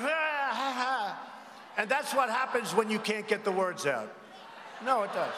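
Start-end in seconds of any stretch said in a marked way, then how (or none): 0.0-1.2 mock stammer.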